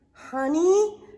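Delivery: high, loud longing for honey; eager, hungry. Acted. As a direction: perk up at the word honey. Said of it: "Pooh hungrily asked".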